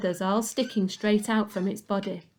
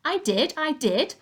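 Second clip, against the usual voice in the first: shouted; 7 semitones higher than usual. A narrator's reading. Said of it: "George shouted".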